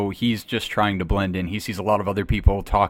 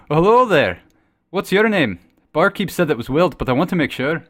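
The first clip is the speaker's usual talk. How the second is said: a lightly raised friendly greeting; druid character voice; 6 semitones higher, 3 dB louder than usual. Acted. Druid hails the Guard captain across the tavern, a touch louder. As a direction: hail the stranger with easy cheer.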